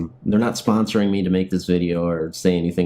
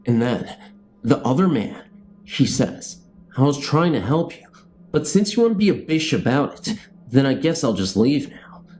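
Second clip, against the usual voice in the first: TV show narration; 4 semitones higher than usual. Acted. Vlogger narrating his made-up show outro, announcer style. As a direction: introduce the episode like a show host.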